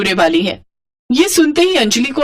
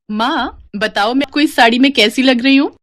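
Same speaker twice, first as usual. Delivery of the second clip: put-on higher, bubbly young voice; playful daughter; 4 semitones higher than usual. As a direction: show off the sari to mom. Daughter shows off sari. (चुलबुली बेटी, ऊँची आवाज़)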